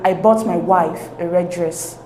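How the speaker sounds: "wife" given the emphatic stress. Shown as a demonstration. Teacher demonstrates emphatic stress to learners, stressing "wife". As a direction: lean on the word "wife". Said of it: "the stress is placed on the word wife".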